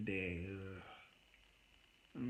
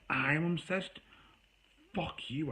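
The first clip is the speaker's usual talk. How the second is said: angry retort; 5 semitones higher, slower than usual. Retold or imitated. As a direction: throw her word back at her in disbelief. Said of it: "I was pissed with her".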